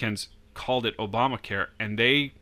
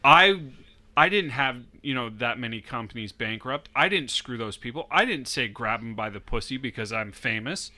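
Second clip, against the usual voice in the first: mock Trump denial. Imitating Trump denying.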